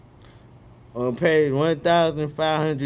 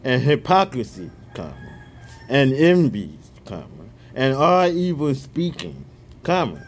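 scripture reading. Real, not acted. Reading First Peter aloud to his viewers, measured scripture reading.

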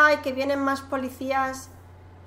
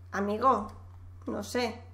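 quiet; 4 semitones lower, 9 dB quieter, slower than usual. Real, not acted. Teasing aside about donuts.

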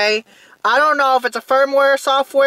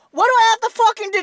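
faster, harder, with a swear; angry ranting; 4 semitones higher, faster than usual. Real, not acted. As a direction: rattle it off in fury. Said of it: "But I'm gonna rant".

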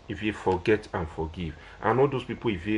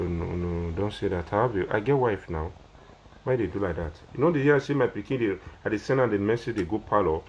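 ordinary talk, nothing marked

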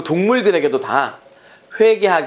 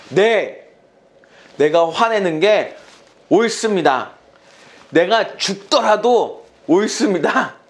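stubborn, drawn-out insistence; defiant retort; 4 semitones higher, slower than usual. Acted. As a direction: dig in and insist you are right. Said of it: "더 기가 막힌 말을 해요". (고집스럽게 우기는 요나)

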